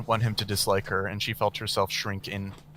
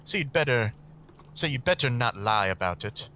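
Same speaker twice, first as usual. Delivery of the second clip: menacing woman. Acted. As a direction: threaten her coldly. Camilla threatens.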